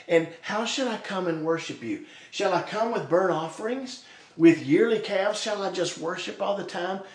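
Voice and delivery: mildly sarcastic string of questions; mock eagerness to please, lightly acted. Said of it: "you're gonna hear some sarcasm in their voice".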